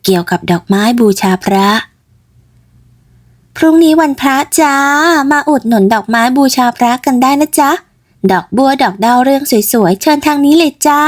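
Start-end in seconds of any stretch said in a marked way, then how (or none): 3.5-11.0 put-on bright, higher girl calling customers over; young flower seller calling out. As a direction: hawk the flowers to passers-by. (แม่ค้าสาวร้องเรียกลูกค้า เสียงสูงขึ้น)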